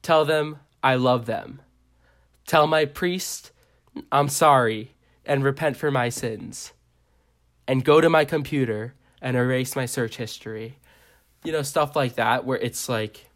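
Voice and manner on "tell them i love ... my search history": solemn mock poem with measured pauses; poem recital. Reading own Instagram poem, mock-earnest recital. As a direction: recite it line by line, leaving gaps. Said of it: "one of the poems I wrote is".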